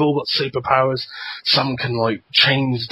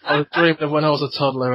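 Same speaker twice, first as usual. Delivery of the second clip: laughing excuse; 4 semitones higher than usual. Retold or imitated. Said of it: "that's the excuse".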